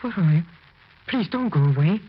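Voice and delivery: high, loud desperate begging; pleading. Acted. Husband begging his wife's ghost to stay, high and pleading. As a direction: beg her not to leave.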